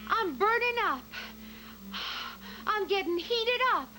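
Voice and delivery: camp up the swooning heroine; hammed-up dramatic acting. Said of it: "a very dramatic scene".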